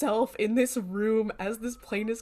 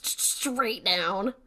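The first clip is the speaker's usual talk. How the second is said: drawn out; much slower than usual. Real, not acted. Dramatizing the plane's steep dive.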